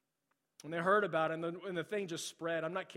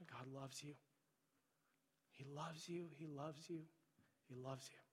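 much softer, tender God loves you; hushed reassurance; 13 dB quieter than usual. Real, not acted. Pastor to hurting listeners, soft tender reassurance. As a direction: let it fall gently, almost under your breath. Pastor comforting congregation, repeated refrain.

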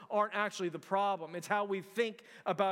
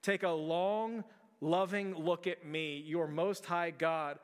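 slow, tender reading; slower than usual. Shown as a demonstration. Preacher reads Peterson's paraphrase to church, slow and tender. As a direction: draw each phrase out gently. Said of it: "he says".

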